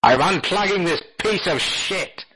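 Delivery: slow, high-pitched put-on outburst; mock exasperation. User threatening to unplug the talking console, mock exasperation. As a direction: play an exasperated user, hammed up.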